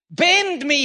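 high retold cry, falling away. Quoting the revivalist's prayer, crying out. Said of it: "he cried".

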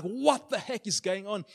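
mildly panicked, drawn-out exclamation; retold freak-out. Preacher retelling his freak-out as he prays over people, mildly panicked. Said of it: "And I'm freaking out".

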